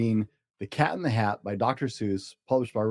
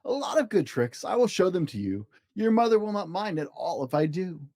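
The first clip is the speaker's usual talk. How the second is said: playful cat; 3 semitones higher than usual. Acted. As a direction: sell the games like a show-off cat. Cat voiced.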